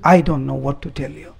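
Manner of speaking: very disturbed. Acted. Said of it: "very disturbed".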